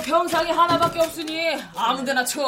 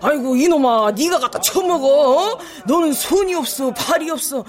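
foul mouthed granny; 5 dB louder than usual. Retold or imitated. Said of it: "그 할매는".

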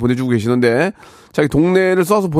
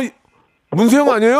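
startled, higher-pitched question; astonished disbelief; 7 semitones higher than usual. Real, not acted. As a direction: blurt it as the truth dawns on you. Host suspects the real singer called. (깜짝 놀라 높아진 목소리)

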